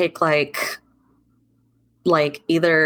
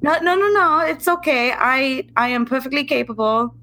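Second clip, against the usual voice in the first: reassuring friend; 4 semitones higher than usual. Acted. Elsa insists, comforting.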